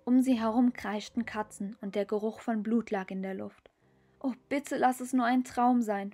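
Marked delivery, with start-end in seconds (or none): 4.2-6.1 a touch of begging, a bit louder; pleading. Acted. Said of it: "flehte sie". (flehend, leicht gehoben)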